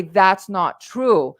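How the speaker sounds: slow and deliberate denial; firm correction. Shown as a demonstration. To society's dismissal, slow firm denial. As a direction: state it plainly, no give. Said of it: "That's when you say".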